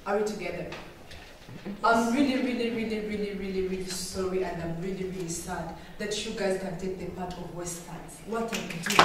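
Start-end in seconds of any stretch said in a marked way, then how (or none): 1.8-8.2 fading sorry. Real, not acted. Apologetic plea to the audience.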